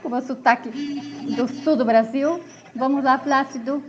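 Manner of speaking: playful put-on southern Brazilian Portuguese accent. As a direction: slip into a southern Brazilian accent for fun, half-laughing at first. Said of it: "mudei já o acento, o sotaque, já vou pro português".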